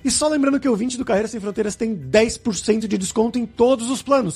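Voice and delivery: upbeat host sign-off, lifted above chat pitch; polished presenter read with punched key words; podcast outro ad read. Acted. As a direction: sell the sponsor to listeners, then sign off. Host reads outro and sponsor ad.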